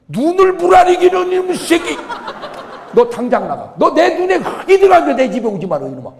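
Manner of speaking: loud, high, hammed-up outburst; enraged father. Father throws out the son who talked back, comic furious shouting. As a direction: roar like a father who has been defied.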